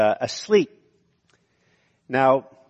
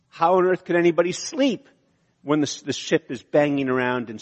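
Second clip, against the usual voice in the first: shocked; 3 semitones higher than usual. Retold or imitated. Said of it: "it could also mean just they're shocked".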